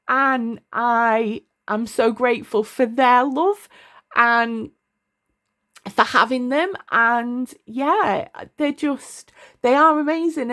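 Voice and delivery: holding back real tears while speaking of family; choked-up gratitude, pitch lifted; emotional. Real, not acted. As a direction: voice rising high as tears come near. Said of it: "sorry, I'm getting a bit emotional".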